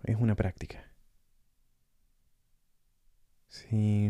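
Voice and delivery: calm meditation guide with long pauses; guided meditation. Acted. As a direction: gently guide the listener through breathing, leaving space between phrases.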